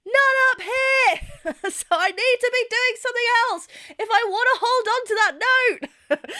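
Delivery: very high, far above speaking pitch; high-pitched demonstration voice, held all through; high head voice. Shown as a demonstration. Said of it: "I'm speaking down here".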